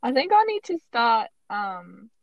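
put-on shaky grasp of an Australian accent; bad Australian accent. Host admits she is out of practice, bad Australian accent. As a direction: attempt a rusty Australian accent. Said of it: "my Australian accent is really bad".

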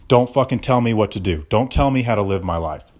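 angry rant. Acted. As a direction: let the anger spill over. Ranting at the lady.

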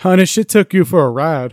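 slow, amused Southern mama; hammed-up Southern accent; put-on Southern accent. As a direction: lay on a Southern accent, drawn out. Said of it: "one-up each other with their accent".

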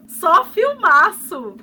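loud, high, laughing cheer; laughing congratulations. Acted. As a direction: shout it through laughter.

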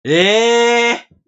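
loud, high, drawn-out cry of disbelief; real astonishment. Real, not acted. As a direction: react stunned to the answer. Stunned by the revealed answer. (驚いて高く大きな「えー！」)

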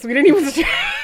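breaking into a loud, high laugh mid-sentence. Real, not acted. Girl retelling gym class stretches, laughing. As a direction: tell it through laughter, voice jumping up. Cracking up over her story.

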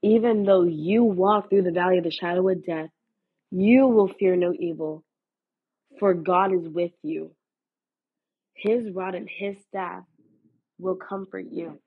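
a declaration spoken over the listener; declaring a prayer. Acted. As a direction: pray the verse over them with conviction. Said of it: "I am declaring and praying this verse over you".

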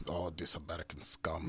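a mock British accent, lightly put on; bad British accent. Friend imitating rude London staff in a bad British accent. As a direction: sneer it as a stuffy Brit, badly faked. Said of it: "that's one horrible British accent".

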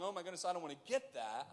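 quick quoted reaction; talking fast. Acted. Onlookers recoiling from leprosy, said fast. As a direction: rush through the onlooker's words. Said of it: "I'm talking fast".

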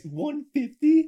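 can't believe that number; disbelief. Real, not acted. Stunned by lowball guess.

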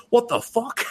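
high-pitched mock bafflement; baffled disbelief. Onlookers react to his return with Chinese food, mock baffled.

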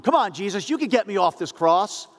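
scornful thief daring Jesus off the cross; mocking taunt. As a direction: goad him like a bully. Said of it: "one is mocking him".

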